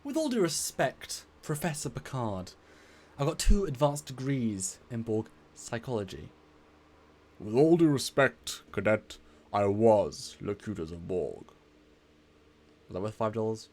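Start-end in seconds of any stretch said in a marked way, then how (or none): 0.0-6.3 a hint of an eager young cadet; character voice. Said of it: "I'll do in a character voice". 7.4-11.5 slow, grave captain's voice; slow and weighty, like a stern captain; Picard voice. Acted. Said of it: "I'll do in a character voice".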